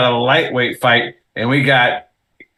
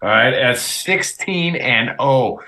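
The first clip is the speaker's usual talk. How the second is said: Russian accent; slower than usual. Shown as a demonstration. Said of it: "getting my throat ready to speak like a Russian".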